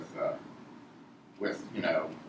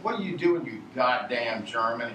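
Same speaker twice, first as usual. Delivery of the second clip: put-on Texas accent. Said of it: "He said that in a Texas accent".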